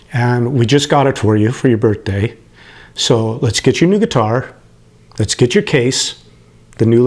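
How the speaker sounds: holding back tears while quoting his dad; choked up. Real, not acted. Retelling his dad's birthday surprise, real choked-up emotion. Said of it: "I always get emotional telling the story".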